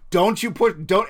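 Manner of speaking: loud, slow warning to a pet; playful stern scolding; mock warning. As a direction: warn it off, drawing the words out. Acted warning to pet raptor.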